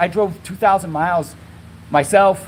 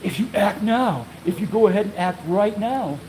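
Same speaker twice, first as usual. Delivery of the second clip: telemarketer voice; 3 dB quieter than usual. Retold or imitated. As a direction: sell it like a TV infomercial. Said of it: "one of those telemarketer guys".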